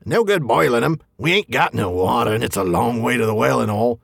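a hint of a whining troll. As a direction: play the trickster posing as a troll. Voice mimicking Tom.

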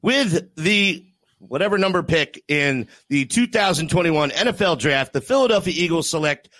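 formal draft pick announcement; draft announcer. Pretend. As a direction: read it like the commissioner at the podium. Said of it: "you hear this?".

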